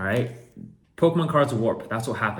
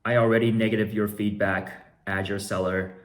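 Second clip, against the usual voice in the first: louder mock all-caps rant; all caps message; 5 dB louder than usual. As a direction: read it like shouting in caps. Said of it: "in all caps".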